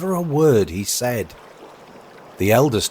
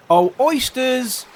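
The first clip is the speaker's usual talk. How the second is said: high, long-drawn hail; calling carpenter; 4 dB louder, slower than usual. Acted. Carpenter calling to the eaten oysters, high hail. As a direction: sing out to them slowly.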